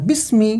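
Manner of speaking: বিসমি with a short final মি; no stretching. Shown as a demonstration. Quran teacher telling learners there is no pull, no stretching. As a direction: let মি in বিসমি end promptly, unheld. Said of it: "এখানে কোনো টান হবে না".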